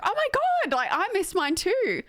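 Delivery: very high, drawn-out mock alarm; imitated panicked friend. Streamer retells friend realizing she missed hers too, mock panicked. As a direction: play up the friend's squealed panic. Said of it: "she's like, starts panicking".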